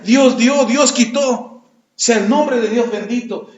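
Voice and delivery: slow, reverent acceptance, God gave and took; drawn out and humble; Job's slow surrender. Retold or imitated. Job telling his wife, slowly and reverently. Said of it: "déjate doy la noticia".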